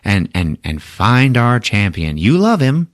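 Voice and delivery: high, hammed-up announcer voice; Grand Master announcing. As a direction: boom it over the city loudspeaker like a showman. Grand Master over the loudspeaker.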